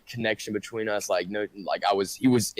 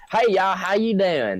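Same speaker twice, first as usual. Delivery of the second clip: slow, much higher mock Southern country accent; 10 semitones higher, 5 dB louder than usual. Mom greeting someone, hammed-up Southern country accent. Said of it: "She sounds really country".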